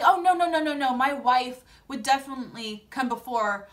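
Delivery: quick mock protest, loud rush of no's; hurried denial. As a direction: imitate someone hastily backpedaling. Retelling his hurried backpedaling denial.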